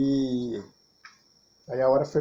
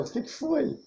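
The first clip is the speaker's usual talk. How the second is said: raised higher, imitating the young woman asking; girl's voice; 11 semitones higher, 5 dB quieter than usual. The girl asks him what's wrong, voiced higher. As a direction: mimic her puzzled question in a higher voice.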